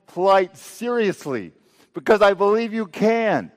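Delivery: urgent cry of trust, pitched high; earnest plea to God. Acted. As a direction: plead upward with conviction. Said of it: "It's saying".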